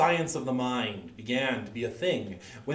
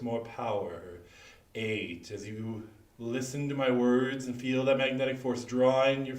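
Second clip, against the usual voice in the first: hypnotic induction. Acted. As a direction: lull the audience with a steady hypnotist's count. Stage hypnosis countdown induction.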